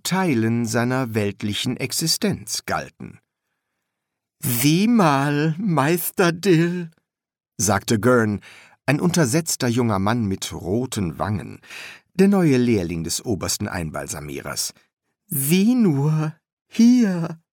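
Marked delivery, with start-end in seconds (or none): 4.4-6.9 high, eager apprentice voice; high-pitched apprentice calling his master; young apprentice. A narrator's reading. 15.3-17.4 high, eager apprentice voice; high-pitched apprentice calling his master; young apprentice. A narrator's reading.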